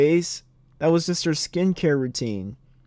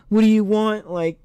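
higher-pitched mock hostess voice; imagined hostess; 6 semitones higher than usual. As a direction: play an eager host, pitched up. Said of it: "She's like".

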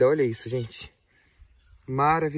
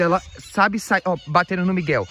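normal talking voice

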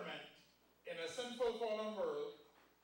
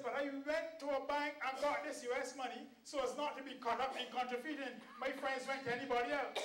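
higher-pitched, mildly indignant plea of innocence; protesting; 6 semitones higher than usual. Acted. Man caught with bad dollars defends himself to police, protesting. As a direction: plead your case in a raised pitch.

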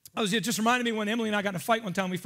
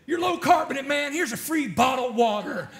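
upbeat shout; 3 semitones higher than usual. Retold or imitated. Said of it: "He said".

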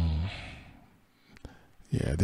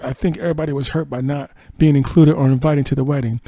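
quoted statement in a steady reading voice; news read; 4 semitones higher, 6 dB louder than usual. Acted. Host reading Samantha's apology to viewers, news read.

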